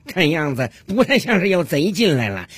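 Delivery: lightly acted self-assured husband; confident husband. Husband tells his wife nothing was stolen, lightly played confidence. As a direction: reassure with a touch of comic confidence. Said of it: "在客厅里对着他太太自信地说道".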